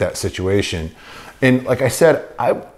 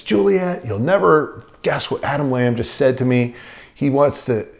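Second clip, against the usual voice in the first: retold excited yell; 4 semitones higher than usual. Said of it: "he yells to his wife".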